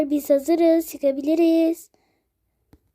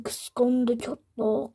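slow taunt; 3 semitones lower, 6 dB quieter, much slower than usual. Acted. Alaycı tekerleme.

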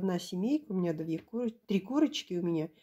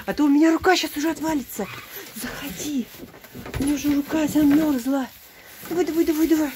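high urging; 5 semitones higher, 5 dB louder, faster than usual. Real, not acted. Urging goat inside, cold hand.

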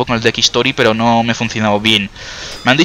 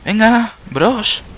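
high drawn-out call; 11 semitones higher, much slower than usual. Real, not acted. Calling the orcs on.

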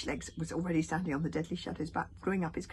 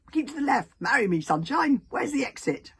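high loud giddy creature; excited dragon voice; 8 semitones higher, 14 dB louder than usual. Acted. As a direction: squeal it like a silly little dragon.

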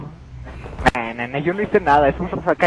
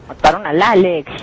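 excited call-out; 2 semitones higher, 6 dB louder than usual. Real, not acted. Reporting teammate's death.

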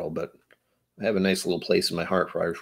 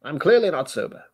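higher hammed-up admission; put-on voice; 7 semitones higher than usual. Host confessing to imaginary Jeeves, put-on high voice. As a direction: keep the silly high voice going. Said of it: "Where's my voice going with this?".

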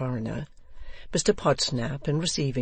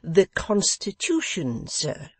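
insisting; 6 semitones higher, 3 dB louder, slower than usual. A narrator's reading. Host insisting to guest.

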